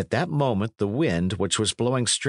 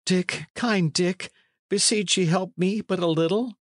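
very high, imploring voice; acted high plea, slowing on the name; desperate pleading; 12 semitones higher than usual. A narrator's reading. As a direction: beg for help as a frightened fugitive. Fugitive begs companion for help.

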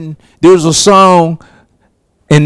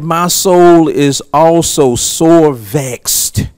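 reading the psalmist; slower than usual. Retold or imitated. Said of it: "The psalmist said".

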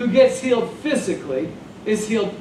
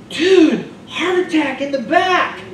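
high, louder desperate protest; urgent plea; 7 semitones higher, 3 dB louder, slower than usual. Acted. Ambulance driver pleading with the cop, high urgent protest. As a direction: plead fast, the patient can't wait.

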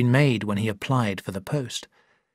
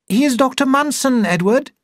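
called out, much higher and louder; calling out; 13 semitones higher, 5 dB louder than usual. A narrator's reading. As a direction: call it down the passage. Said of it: "called out to her brother".

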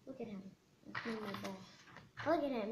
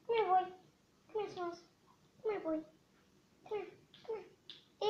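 high coaxing call to the dog; 6 semitones higher than usual. Real, not acted. Kid calling her dog Smalls, high and coaxing. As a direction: coax the dog over, voice up high.

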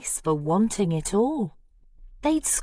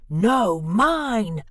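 louder, insistent counter-claim; hollering; 4 dB louder than usual. Acted. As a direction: holler back to win the cone. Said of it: "hollered Bruce".

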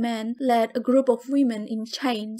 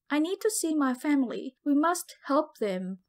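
pleading; 3 semitones higher than usual. Acted. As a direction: beg to see her family. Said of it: "I pleaded".

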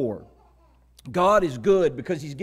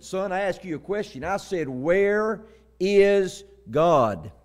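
booming preacher; 3 semitones higher, slower than usual. Retold or imitated. Preacher repeating his question to a silent boy, booming. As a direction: imitate a preacher pressing slowly for an answer. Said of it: "in this deep, booming voice".

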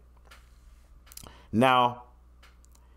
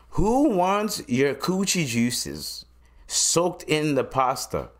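disgusted drawl; 6 semitones higher, slower than usual. Real, not acted. Disgusted slow high.

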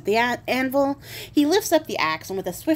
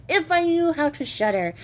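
higher, wistful whine; young king whining to himself, mock lament; 7 semitones higher than usual. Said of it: "sit there and be like".

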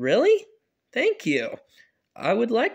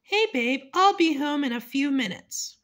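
dad on phone; 5 semitones higher than usual. Acted.

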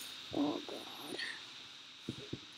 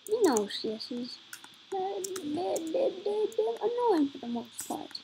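put-on Jamaican accent; 3 semitones higher, 3 dB quieter than usual. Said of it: "I'm putting on some kind of, like, Jamaican accent".

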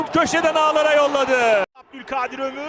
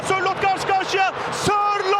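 excited commentator shout; 4 semitones higher than usual. Real, not acted. Chance in live commentary.

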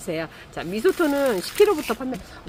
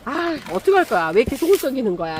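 higher-pitched, exasperated scolding; playfully fed up with a troublesome child; mock temper; 4 semitones higher than usual. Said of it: "제가 막 애들한테 승질을 부리거든요". (애한테 성질부리듯 높게 투덜대는 말투)

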